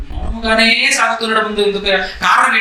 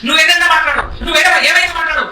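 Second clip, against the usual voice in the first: higher, stubborn crowd retort; insistent defiance; 5 semitones higher, faster than usual. Acted. Crowd refusing Pilate's plea, insistent defiance. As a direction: brush off the objection, pitch raised.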